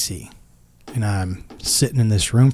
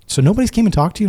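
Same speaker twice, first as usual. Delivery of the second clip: surprised nurse; 10 semitones higher, much faster than usual. Retold or imitated. Nurse surprised no one updated him.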